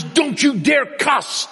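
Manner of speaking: high, loud, slow scolding; imitating Sam. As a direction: drag out a mock stern ban on cussing. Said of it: "He says".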